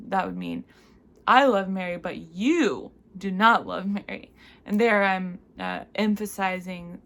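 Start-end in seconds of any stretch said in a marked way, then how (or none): 1.3-4.3 louder, hitting I then you; loud pointed contrast of I and you; accusatory tone. Shown as a demonstration. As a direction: throw the blame at you. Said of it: "in a sort of accusatory tone".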